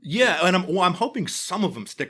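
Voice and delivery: high, loud, laughing confession. Real, not acted. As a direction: joke through laughter. Joking about ad money, laughing.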